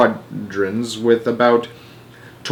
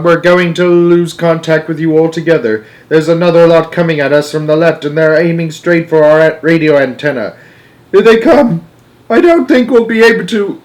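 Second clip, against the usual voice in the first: loud, raised voice building to panic; urgent alarm; 5 semitones higher, 5 dB louder than usual. A narrator's reading. Astronaut losing contact under attack, alarmed. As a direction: report frantically, ending high.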